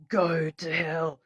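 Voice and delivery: retold command. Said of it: "And I said".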